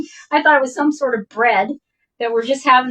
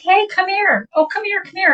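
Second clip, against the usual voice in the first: calling out; 8 semitones higher than usual. Retold or imitated. Friend calling a stranger over.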